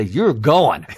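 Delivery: firm, emphatic parental command; mock parental order. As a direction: lay down the law to a kid. Father imagines ordering son along.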